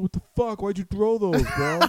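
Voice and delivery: loud, high mock outrage; retold angry accusation. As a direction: imitate an indignant drunk shouting. Imitating drunk friend's accusation.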